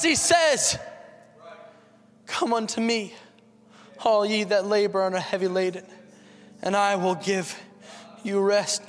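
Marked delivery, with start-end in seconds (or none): 2.3-8.9 lower, softened voice of invitation; tender invitation. Acted. Preacher quoting Jesus's call to the weary, tenderly. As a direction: gently voice a comforting call.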